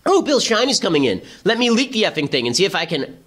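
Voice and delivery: mock the chief of staff's panicky voice; hammed-up paranoid staffer; imitating Reince. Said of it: "imitating Reince's voice".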